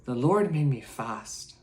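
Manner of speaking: a self-mocking, clumsy Irish accent; hammed-up Irish brogue that swells on the repeat; bad Irish accent. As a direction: put on a rough Irish lilt for the quote. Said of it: "I'm gonna do a really bad Irish accent".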